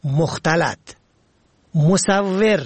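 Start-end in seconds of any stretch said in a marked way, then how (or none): 1.7-2.6 مصور with "e" after the و, "musavver"; third letter kasra. Shown as a demonstration. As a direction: say مصور as mu-sav-VER. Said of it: "به کسر سوم".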